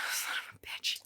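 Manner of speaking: under-the-breath muttered curse; a hushed exasperated oath; whispered curse. Real, not acted. To herself over the book, a whispered curse.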